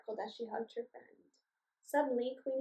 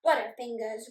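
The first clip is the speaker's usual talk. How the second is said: grumbling; 6 dB louder than usual. Acted. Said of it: "grumbled the other goblin".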